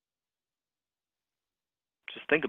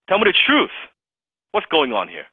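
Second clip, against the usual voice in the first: forceful demand; 4 semitones higher, 3 dB louder than usual. Shown as a demonstration. Demanding truth from prospect.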